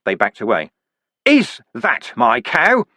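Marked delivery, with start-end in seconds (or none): 1.3-2.9 higher, slow bewildered demand; dazed demand. Acted. Vimes pressing the dwarfs, slow and high. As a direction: plead it out slowly like a lost child. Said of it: "the creature demanded".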